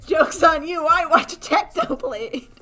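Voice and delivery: loud, gloating jeer; gloating taunt. Acted. Taunting the antis, loud gloating jeer. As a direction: rub it in their faces.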